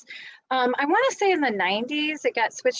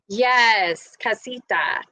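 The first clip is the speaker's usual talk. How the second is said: casita in a put-on Spanish accent; attempted Spanish accent; much slower than usual. Real, not acted. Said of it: "I said that with an accent".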